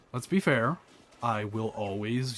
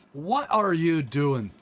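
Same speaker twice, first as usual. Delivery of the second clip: mildly exasperated retold outburst, a bit louder; imitating heated brother; 3 semitones higher, 4 dB louder than usual. Brother objects to the accent in Ireland, imitated heated complaint. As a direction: stretch out the question in mock exasperation. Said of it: "he got so heated".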